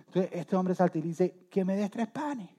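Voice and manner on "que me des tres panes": higher-pitched request; lightly acted plea, pitched up; pleading night visitor. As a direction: ask a sleeping friend for a favour. Night visitor asking sleeper for bread.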